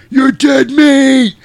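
high, loud, slow snarl of a threat; loud vampire threat; mock threat yell. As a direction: drag out a hammed-up menace. David threatens from above.

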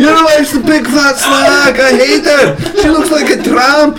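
high, comic tirade; shouted insults. Acted. Shrek insulting the donkey's wife, angry shouting. Acted quarrel, trading insults.

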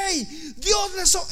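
high, loud, urgent call; re-enacted yell; shouting. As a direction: shout a warning to a crowd, cut short. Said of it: "Y yo les gritaba".

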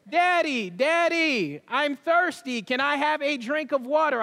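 a hint of a thirsty kid calling from bed; little girl pleading. Preacher imitating his little daughter begging for water, mild whine.

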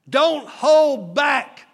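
slow emphatic exhortation. Acted. Preacher exhorting the congregation.

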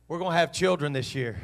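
second try, punched harder for the church; bolder retry. Shown as a demonstration. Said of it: "I'm gonna try one more time".

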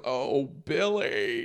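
very slow drawn-out moan of a name; slow breathy-free mock swoon; swooning Jim Carrey quote. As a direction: stretch it like a lovesick sigh. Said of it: "then go".

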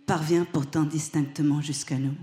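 slow, measured poetry recital; poem reading. Acted. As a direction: read it like a poem over music. Reads a poem over song.

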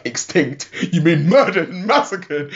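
hammed-up indignant correction; mock indignation. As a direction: retell an offended objection. Retold outrage at the word extinct.

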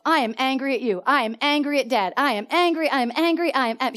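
mildly voiced angry child going off; imitated angry outburst. Daughter going off at her mother, mimicked anger. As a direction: imitate a repetitive, venting rant. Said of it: "She just went off".

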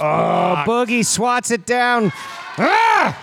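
high, yelled play call; excited shout. Real, not acted. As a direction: shout the big block. Live block in the game.

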